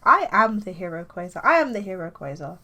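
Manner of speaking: formal, fully worded self-introduction. Acted. Norwegian hero introducing himself, very formal. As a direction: announce yourself stiffly as the hero. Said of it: "they come across as very formal".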